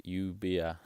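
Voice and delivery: LLUVIA said as yoo-BEE-a; lluvia, double L as a y; sounded out. Shown as a demonstration. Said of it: "is more like".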